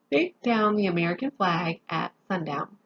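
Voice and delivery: sleepy yawn through the words. Real, not acted. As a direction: say it mid-yawn, drowsy. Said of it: "I'm yawning 'cause I'm very sleepy".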